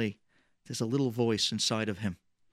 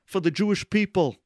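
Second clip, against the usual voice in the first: pleading; 4 semitones higher than usual. Retold or imitated. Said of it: "They're pleading with Eddie".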